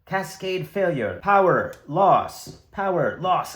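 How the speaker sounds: slow robotic alarm voice; computer voice. Acted. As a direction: recite it like a ship's computer. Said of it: "this voice is going off".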